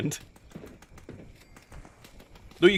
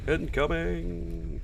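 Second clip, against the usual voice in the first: higher, slowly stretched "incoming"; drawn-out warning call; 6 semitones higher, much slower than usual. Real, not acted. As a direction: call it out long and high. Warning call during gameplay.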